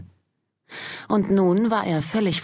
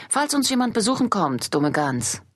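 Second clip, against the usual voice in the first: mistress scolding; 6 semitones higher than usual. Acted. Mistress scolds maid Lou.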